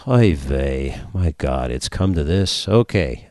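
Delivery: put-on kvetch it in a Yiddish accent. Joke punchline, Jewish woman answers.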